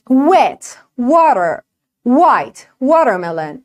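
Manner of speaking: "Wet" and "water" begun with rounded lips; slow model W words. Shown as a demonstration. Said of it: "باید لباتو قنچه کنی". (دبلیو درست با لب غنچه)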